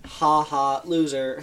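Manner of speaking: flat monotone robot taunt; deadpan robot, every word level; robotic voice. Retold or imitated.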